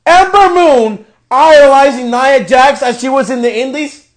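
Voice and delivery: disbelieving question, rising at the end; incredulous repeat. Real, not acted. Repeating the commentary to viewers in outraged disbelief. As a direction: echo it back in disbelief.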